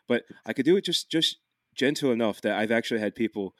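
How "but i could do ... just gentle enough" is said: subtle Dublin Irish lilt; light Irish accent. Shown as a demonstration. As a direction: let a gentle Irish accent creep in. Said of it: "the more I do it, the more it comes out".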